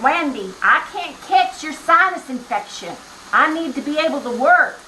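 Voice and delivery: lightly voiced Tennessee boss protesting. Quoting her boss from Tennessee, light Tennessee accent. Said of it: "he's from Tennessee, so he's like".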